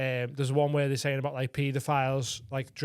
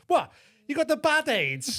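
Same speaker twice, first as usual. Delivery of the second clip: much higher, louder shocked squeal; mock shocked; 12 semitones higher, 5 dB louder than usual. Interviewer reacting to the man's confession, mock shocked. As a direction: gasp it out in disbelief. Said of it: "And he goes".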